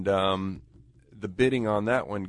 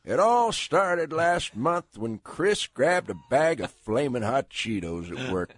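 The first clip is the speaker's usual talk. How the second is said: slow, spinning a yarn; old mountain storyteller; 3 semitones higher than usual. Shown as a demonstration. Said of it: "read it like, uh, you're a storyteller, an old mountain storyteller".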